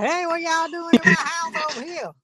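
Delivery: high-pitched redneck impression; redneck white guy. Redneck homeowner confronts men in his house, high mock-redneck voice. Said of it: "like he's some redneck white guy".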